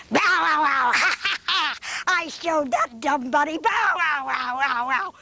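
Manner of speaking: gruff mock barks with a gloating laugh; barking dog. Doggone dog gloats over the bunny, barking. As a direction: play a smug dog barking.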